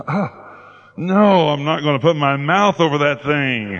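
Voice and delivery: appalled refusal. Retold or imitated. Preacher retells balking at blowing up his nose, appalled refusal. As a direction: balk in mock horror. Recoils from God's odd instruction.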